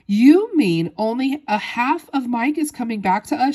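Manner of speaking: high, loud dismayed question; horrified cry. A narrator's reading. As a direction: cry out, aghast. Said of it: "she cried".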